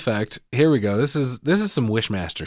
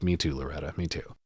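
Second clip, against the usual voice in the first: quiet mock sigh; 7 semitones lower, 10 dB quieter than usual. Host sighs along with Loretta.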